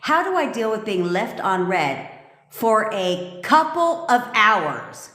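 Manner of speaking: slow, sneering read of a silly question; reading a viewer's message aloud to ridicule it, mocking. Shown as a demonstration. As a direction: read it back to mock how childish it sounds. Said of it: "let me read it for you".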